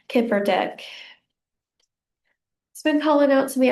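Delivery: breathless, slightly winded speech; out of breath. Real, not acted. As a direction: talk while short of breath. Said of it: "how out of breath I sound".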